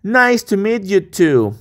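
drawn out, clear teacher model; slow model to repeat. Shown as a demonstration. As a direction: say it slowly so they can repeat. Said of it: "Repite conmigo".

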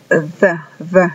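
the with tongue between teeth; English th. Shown as a demonstration. Teacher drilling the word the for students. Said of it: "Z como la pronuncian los españoles".

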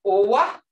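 "Owa" said short and punchy; short vowel demo of "Owa". Shown as a demonstration. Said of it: "hear that uh".

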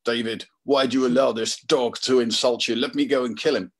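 a hint of a loyal soldier; lightly voiced angry commander; Abishai eager. Abishai urges David to kill Shimei, lightly voiced. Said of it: "And Abishai is".

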